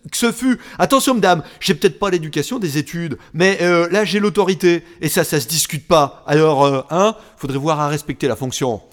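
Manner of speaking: haussant le ton, vexé; indigné. Acted. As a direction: remettre à sa place avec autorité. Offended officer asserts authority. (ton vexé et autoritaire)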